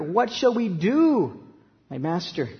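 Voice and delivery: slow, high plea that drops away at the end; a boy pleading with his master in fear; fearful plea. Retold or imitated. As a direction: beg the master for help. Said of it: "It's a cry in the face of fear".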